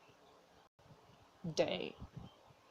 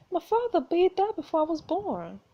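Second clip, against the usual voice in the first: higher, startled question; startled disbelief; 7 semitones higher than usual. Acted. Daughter answers dying mother about her father, startled. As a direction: blurt it out in disbelief.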